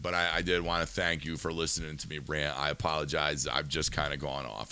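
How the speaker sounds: calm down and apologize for ranting; apologetic. Real, not acted. Host thanking his guest after a rant, softly apologetic.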